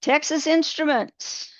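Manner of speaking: a teacher's self-mocking Texas accent. Shown as a demonstration. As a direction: drag out Texas Instruments in a hammed-up Texas accent. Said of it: "I'll say this with my best Texas accent".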